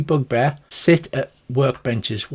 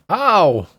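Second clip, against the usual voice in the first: yelp of pain; 5 semitones higher, 5 dB louder than usual. Acted. Rug gets ripped open.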